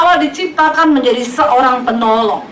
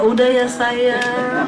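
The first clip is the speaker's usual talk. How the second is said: mock tender coo; 5 dB quieter, much slower than usual. Husband soothing crying wife.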